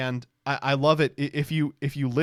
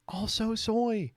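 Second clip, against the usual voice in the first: high, slow mock voice; drawn-out high jeer; high-pitched mocking; 9 semitones higher, 3 dB quieter, slower than usual. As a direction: pitch it way up and stretch it. Repeats the mockery higher.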